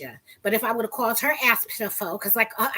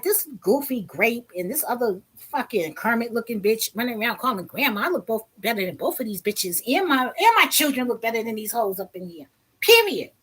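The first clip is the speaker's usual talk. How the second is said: indignant rant. Retold or imitated. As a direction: vent the insult, then slam down the last word. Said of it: "That's how I was feeling".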